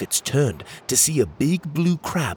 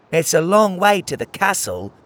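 a higher, louder snarl leaning on long; 8 semitones higher, 4 dB louder than usual. Acted. Crabby friend snarling at Pockets about the journey. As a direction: sneer the words back at him. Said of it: "the crabby friend snarled".

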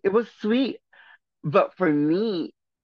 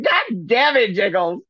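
mock angry shout; 5 semitones higher, 4 dB louder than usual. Friend snaps at her.

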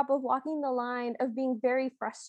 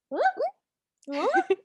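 confused squeaks; 10 semitones higher than usual. Retold or imitated. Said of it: "they're, like, confused squeaks".

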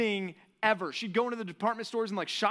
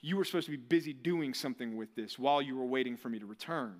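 stern master; 6 semitones lower than usual. Retold or imitated. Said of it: "And he says".

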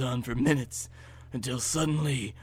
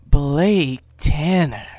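controlled call, loud and drawn out, near normal pitch; crying out; 9 dB louder, much slower than usual. Acted. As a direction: call the name slowly and firmly. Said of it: "A familiar voice cries".

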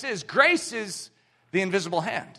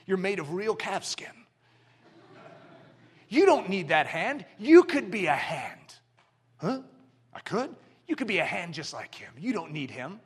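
a hint of a sly whispering devil; Satan tempting. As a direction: lure the glove away gently. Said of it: "Can't you see Satan?".

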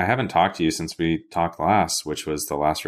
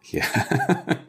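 high squealing laugh; real laugh over the word; 11 semitones higher than usual. Real, not acted. Laughing hard.

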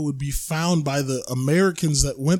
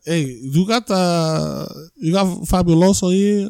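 mock Latino accent; 2 semitones higher, 3 dB louder, slower than usual. Mock Latino store customer.

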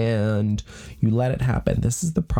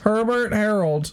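high-pitched pet-name voice; cutesy cooing; 10 semitones higher than usual. Pretend.

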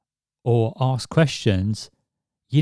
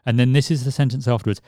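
rushed repeat; much faster than usual. Shown as a demonstration. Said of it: "that builds quite a bit of sort of tension".

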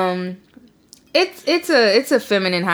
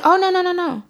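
emphatic denial; 9 semitones higher than usual. Retold or imitated. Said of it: "I was like".

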